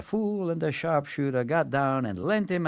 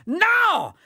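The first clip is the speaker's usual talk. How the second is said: high, loud confusion; the Tsar; 14 semitones higher, 4 dB louder, much slower than usual. Acted. Tsar mishearing the servant, high and loud. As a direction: mishear and blurt.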